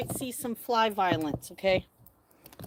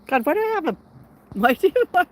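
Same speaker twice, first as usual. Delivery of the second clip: pirate voice; 7 semitones higher, 8 dB louder, faster than usual. Real, not acted. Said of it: "why did I sound like a pirate?".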